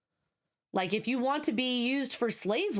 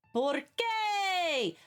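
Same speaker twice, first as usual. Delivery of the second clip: Spanish; 9 semitones higher than usual. Pretend. Switches to Spanish mid-rant.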